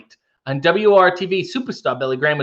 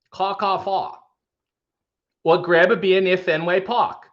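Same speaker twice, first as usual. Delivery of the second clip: lightly put-on Boston accent; broad Boston ah; 3 semitones higher than usual. Shown as a demonstration. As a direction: drop every r, Boston style. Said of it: "in the Boston accent".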